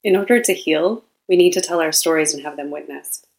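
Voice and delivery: measured, deliberate reading in short phrases; reading a quote aloud. Acted. Host reads listeners a quote about women's stories, measured reading. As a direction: read it out with care, pausing between phrases.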